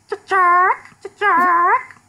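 high loud alarm chirp; sharp high warning squawk; alarm call. Shown as a demonstration. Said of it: "And that's like".

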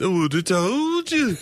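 put-on slow lilting Liverpool accent. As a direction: draw it out, Liverpudlian. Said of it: "the accent of a famous songwriting duo".

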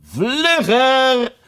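high urgent shout. Acted. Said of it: "riep de koningin".

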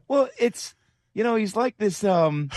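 high, strained voice pushed to the back of the throat; Jerry Dipoto impression. Host imitating GM Jerry Dipoto on the interview, high and throaty. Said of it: "I can't do a Dipoto impression".

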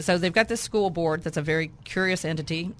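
raspy, worn-out voice; hoarse, losing voice. Real, not acted. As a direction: talk through a tired, husky throat. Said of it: "That's why I have no voice".

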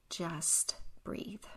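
hushed, near-whispered comfort; soft soothing. Real, not acted. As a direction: let it out softly, almost whispering. Soothing the stressed listener.

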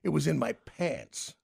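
sheepish answer. Retold or imitated. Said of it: "He goes".

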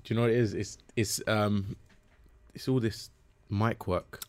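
drowsy, just woken up voice; sleepy. Real, not acted. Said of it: "Are you awake?".

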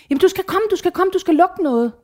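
daughter urging her mother to come; insistent daughter. Retold or imitated. (datteren insisterer, højere og ivrig)

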